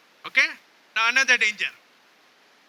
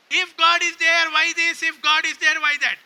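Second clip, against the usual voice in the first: imitated complaint; 3 semitones higher than usual. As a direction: voice a grumbler questioning God. Voicing people's complaint against God.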